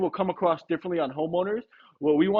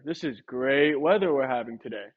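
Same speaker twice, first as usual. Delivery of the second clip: lower, dull and unconvinced; flat take; 4 semitones lower than usual. Shown as a demonstration. Trainer demos to a homeowner, flat and doubtful. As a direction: let the line fall flat. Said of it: "if I say it in two different ways using my tonality".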